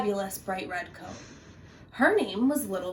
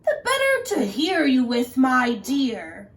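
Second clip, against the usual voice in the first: croaking wolf; 3 semitones higher, 5 dB louder than usual. Acted. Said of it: "croaked the wolf".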